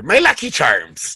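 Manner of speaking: lightly hammed Irish-style accent; a hint of a cereal-mascot brogue; mock Lucky Charms accent. Picturing the point guard talking, light mock accent. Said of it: "that's all I picture".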